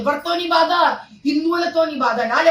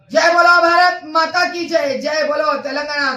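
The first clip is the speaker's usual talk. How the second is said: slogan shout. Real, not acted. Closing patriotic slogan call.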